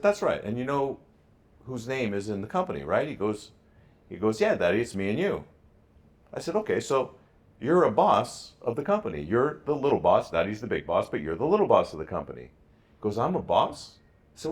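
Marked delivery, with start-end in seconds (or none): 0.0-12.4 high, bright pep-talk voice, pitch well up; excited encouragement. Retold or imitated. Dad hyping up his son on FaceTime, excited and high. 13.2-14.0 put-on high, wondering little-kid question; surprised child. Son asking his dad in disbelief, high and surprised.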